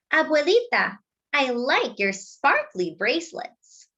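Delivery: high, sweet compliment; admiring girl. Acted. Girl admires her grandmother's bracelets, high and sweet. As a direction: charm Grandma.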